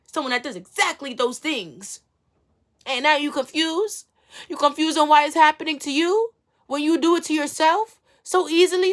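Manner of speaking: high, loud, impassioned ranting; heated rant. Real, not acted. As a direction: build into a fired-up sermon-like rant. Ranting, pitch and level way up.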